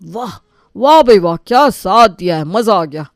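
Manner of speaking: loud sarcastic wah wah; mock-applaud him; sarcastic praise. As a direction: brother mocking the husband, loud.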